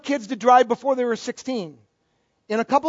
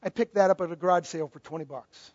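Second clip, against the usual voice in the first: low, soft voice of a musician making his point; understated, hushed retelling of a punchline; retold parting words; 6 semitones lower, 8 dB quieter than usual. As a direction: deliver the violinist's line low and quietly. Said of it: "he said".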